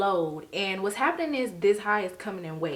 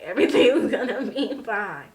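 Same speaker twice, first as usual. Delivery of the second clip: louder, laughing through the words; louder laughing ironic reassurance; 2 semitones higher, 7 dB louder than usual. Real, not acted. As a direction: laugh at your own naive hope. Ironic setup before twist.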